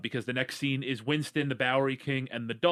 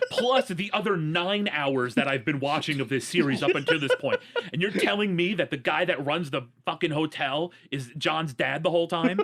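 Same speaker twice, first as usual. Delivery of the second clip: laughing disbelief; 4 semitones higher, 4 dB louder than usual. Real, not acted. Joining the mock outrage, laughing.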